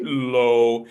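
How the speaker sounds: low dropped down low; low pitch demo. Shown as a demonstration. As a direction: sink the voice on low. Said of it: "talking about pitch".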